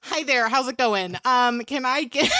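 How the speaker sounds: lightly lifted, polite drive-thru greeting; customer service voice. Acted. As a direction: lilt it like a courteous customer. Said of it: "It's my customer service voice".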